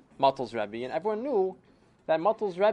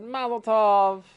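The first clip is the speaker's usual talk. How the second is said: cheering crowd; 7 semitones higher, 9 dB louder, slower than usual. Retold or imitated. Wedding crowd cheering the couple.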